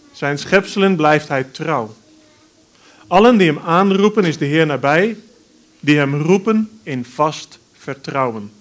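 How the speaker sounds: measured, solemn psalm reading; scripture reading. Acted. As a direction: church lectern reading. Reads a psalm aloud in church.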